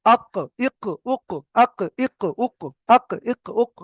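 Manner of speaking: "আক, ইক, উক" with a deep q, tongue root on the palate; tongue-root q ending "আক, ইক, উক"; deep qaf. Shown as a demonstration. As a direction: drill "আক, ইক, উক" with a bounced back-of-mouth q. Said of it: "উপরের তালুর সঙ্গে লাগিয়ে কফ".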